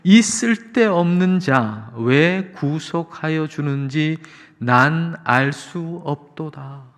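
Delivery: slow, drawn-out hymn confession; measured, stretched lyric delivery; hymn recitation. Acted. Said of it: "찬송가 삼백십 장의 고백".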